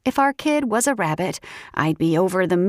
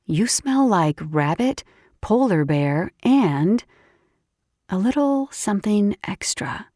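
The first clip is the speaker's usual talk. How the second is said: teasing friend voice. Acted. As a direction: tease him playfully.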